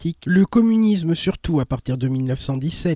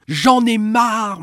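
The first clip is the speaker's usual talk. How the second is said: slow, loud and higher, dragged out; vociferating; 4 semitones higher, 4 dB louder, much slower than usual. Acted. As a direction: draw out each word, fed up and yelling. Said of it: "vociférait".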